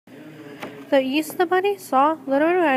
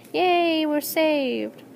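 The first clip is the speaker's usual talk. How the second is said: cheering; 3 semitones higher, much slower than usual. Acted.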